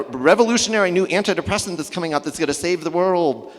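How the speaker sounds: sarcastic sales-pitch hype; mock the hyped promises. Mocking hyped drug promises.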